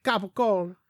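Italian American gabagool. Shown as a demonstration. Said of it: "But they would say".

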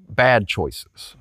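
breathy whispered aside. Real, not acted. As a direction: drop to a whisper on the point. Preacher softening a point.

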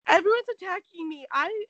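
mock whine. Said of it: "And she's like".

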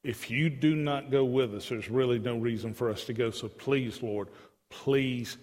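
low, restrained begging. Acted. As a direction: plead earnestly, slowing on the last appeal. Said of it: "he's begging God".

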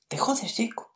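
high, mocking te jodes; sing-song taunt at Jacob; te jodes thrown up high and teasing. Repeats the put-down higher.

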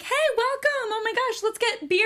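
high-pitched, mock-cheery sitcom chatter; gushing greeting. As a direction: gush like a feel-good show. Mimicking a feel-good show.

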